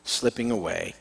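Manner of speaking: earnest, measured Bible reading aloud; scripture reading. Acted. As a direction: read the Gospel to the congregation. Reads the Gospel passage aloud.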